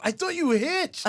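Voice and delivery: drawn-out, playful mom refusal; mom teasing. Retold or imitated. Mom teasing her son from the car, high and slow. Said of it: "She goes".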